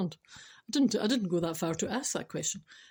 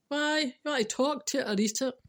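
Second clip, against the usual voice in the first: higher, broader Scottish retort; Scottish butcher; 5 semitones higher than usual. Acted. Butcher replying to the lamb customer, broad Scottish. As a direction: answer back in playful broad Scots. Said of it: "imagine going into a Scottish butcher".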